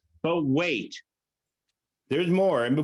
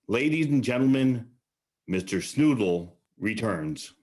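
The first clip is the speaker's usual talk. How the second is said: announcer; 3 semitones lower than usual. Acted. Emcee announces the next act.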